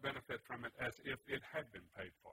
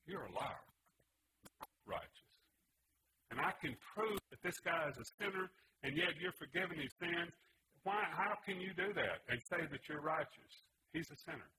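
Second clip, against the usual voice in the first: Satan raging against God, a raised accusing shout; Satan screaming; 4 semitones higher than usual. Retold or imitated. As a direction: hurl the accusation up at heaven. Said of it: "and he would scream".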